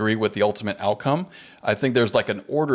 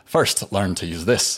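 put-on terrible Scottish accent; slower than usual. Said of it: "I'm gonna do my terrible Scottish accent".

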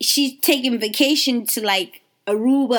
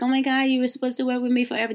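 mock whine; 4 semitones higher, faster than usual. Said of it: "You can't feel like".

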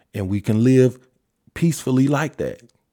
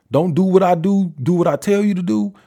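higher and louder, bossy mock order; mocking quote; 5 semitones higher, 4 dB louder than usual. Mocking the preachy crowd, bossy and louder. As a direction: throw their double standard back at them. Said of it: "when you say something like that".

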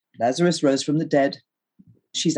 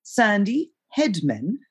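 correcting; 4 semitones higher, much slower than usual. Acted. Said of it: "I corrected him".

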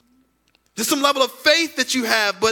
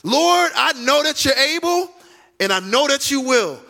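confident prayer; 3 semitones higher than usual. Shown as a demonstration. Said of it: "That's great faith".

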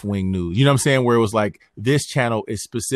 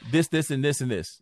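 mock correction; 5 semitones higher than usual. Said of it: "he'll come up and be like".

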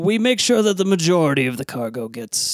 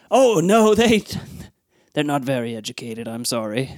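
flustered captain. Acted. Captain apologizes for crew.

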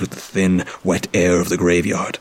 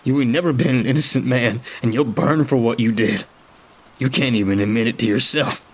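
spitting angry; 5 semitones higher than usual. Acted. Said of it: "he spits".

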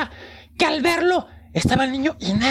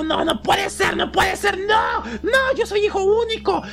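negación que sube de tono hasta el grito; pánico creciente; 4 semitones higher than usual. Acted. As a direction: se va desesperando sin creerlo. Niño no da crédito. (el niño, aterrado, le grita al fantasma)

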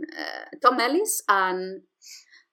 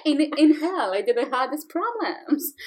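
put-on lightly done British devil accent; a hint of a posh British devil; 3 semitones higher than usual. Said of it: "this accent is horrible".

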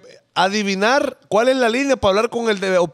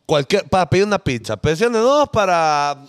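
phone menu voice. Retold or imitated. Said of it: "una muchacha hablando ahí".

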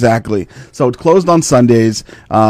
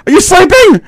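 high imitated daughter; 4 dB louder than usual. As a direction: mimic a pestering daughter. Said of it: "She's like".

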